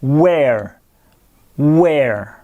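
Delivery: where said "wear", slow and clear; 1 word where. Shown as a demonstration. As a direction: model where like "wear" for the class. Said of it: "Regardez bien la prononciation".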